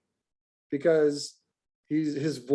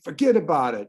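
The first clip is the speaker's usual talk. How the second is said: put-on New Jersey accent. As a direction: toss it out like a New Jersey local. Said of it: "Are they from New Jersey?".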